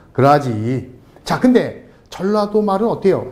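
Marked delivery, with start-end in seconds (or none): 0.1-0.9 low-pitched Jeolla dialect word. Shown as a demonstration. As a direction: Jeolla accent, dropped in pitch. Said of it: "전라도 사투리?".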